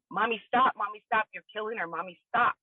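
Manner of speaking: a hint of a child's frantic plea; retold scream. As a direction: relive the little sister's cry without full force. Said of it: "she starts screaming".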